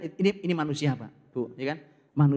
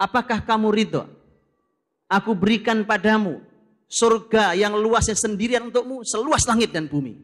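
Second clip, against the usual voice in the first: solemn proclamation; 5 semitones higher, 8 dB louder than usual. Retold or imitated. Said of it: "Kata Allah".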